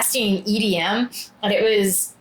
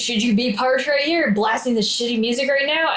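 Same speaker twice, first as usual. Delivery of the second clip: higher, indignant confrontation; retold anger; 4 semitones higher than usual. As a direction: re-enact an angry challenge to a stranger. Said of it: "I was so angry".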